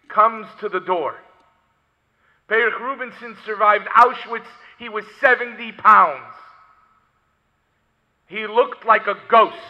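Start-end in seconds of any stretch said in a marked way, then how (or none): 2.5-9.6 loud, emphatic sermon storytelling; preacher raising his voice; forceful preaching. Acted. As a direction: drive each fact home loudly.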